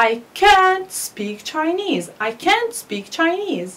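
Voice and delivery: can't stressed and high, slow; strong can't. Shown as a demonstration. Teacher models stressed can't for the class. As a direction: lean on can't in the sentence. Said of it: "You see the difference?".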